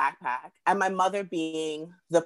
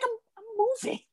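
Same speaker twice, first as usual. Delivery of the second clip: laughing through it; 4 dB quieter, faster than usual. Retold or imitated. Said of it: "She's like".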